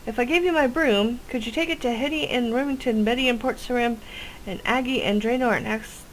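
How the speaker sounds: eager witch; chirpy witch voice. Acted. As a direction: sell the plan like an eager witch. Witch NPC continues.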